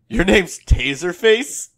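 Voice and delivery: slow, drawn-out mock incredulity; quoting the film, slow and incredulous; slow disbelief. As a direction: stretch out Taserface in disbelief. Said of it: "he's like".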